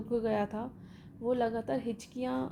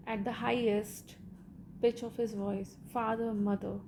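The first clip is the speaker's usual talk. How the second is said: slow, measured read-aloud of a story; deliberate textbook narration; much slower than usual. Acted. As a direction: read each phrase out slowly for the class. Reads English story text aloud.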